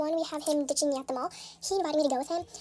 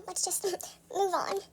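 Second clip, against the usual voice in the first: laughing; 6 dB quieter, much slower than usual. Retold or imitated. Brushing off his apology, laughing.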